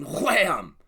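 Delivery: exclaimed impact. Retold or imitated. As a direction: slam the word out big and long. Sound effect for the story's impact.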